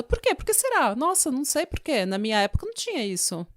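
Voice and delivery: feigned bafflement, pitch leaping up high; mock puzzlement. Host mocking people who wonder at troubled youth, mock bewildered. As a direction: play innocent, as if truly clueless.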